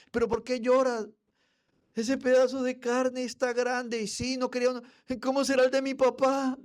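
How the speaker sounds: put-on high, loud wailing little boy; crying child. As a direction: wail like a spoiled kid. Child cries over meat.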